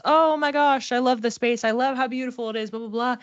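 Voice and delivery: mock-gush over a lovely space; gushing Libra. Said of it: "Libra would love the home decorating process".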